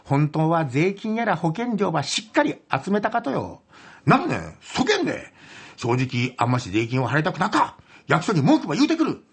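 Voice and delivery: Hakata niwaka monologue. Acted. Host performing a topical Hakata skit for the judge, theatrical niwaka delivery.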